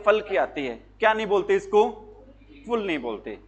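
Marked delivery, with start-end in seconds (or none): 0.0-0.2 फल with short a, pəl; फल, short and open; fal not ful. Shown as a demonstration. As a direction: say the ending फल not full. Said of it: "इसकी sound आती है".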